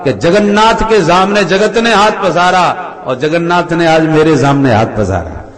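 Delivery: exultant pride. Acted. King tells his guru of his great good fortune, exultant. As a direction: proclaim it proudly, building in force.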